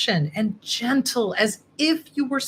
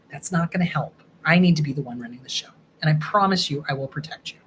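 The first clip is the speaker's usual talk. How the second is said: put-on reassuring the inner child; 2 semitones lower than usual. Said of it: "you kinda gotta talk to them".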